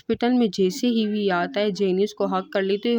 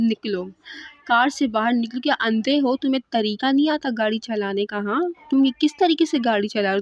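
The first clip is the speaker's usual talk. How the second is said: raised, sharp scolding at a bad driver; angry yell; 3 semitones higher than usual. Girl yelling at the driver who cut her off, angry. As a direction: bark at the driver to get out.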